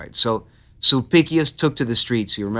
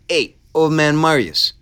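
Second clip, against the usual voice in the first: lightly put-on higher voice; Sulpicius; 4 semitones higher than usual. Shrewd politician approaching old Marius for a deal, lightly voiced character. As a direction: call out as a scheming dealmaker, hint of character. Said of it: "He probably talked like that".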